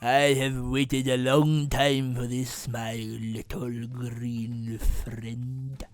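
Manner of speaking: low, slow menace; sinister villain. Retold or imitated. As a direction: drag out the threat. Villain to Yoda.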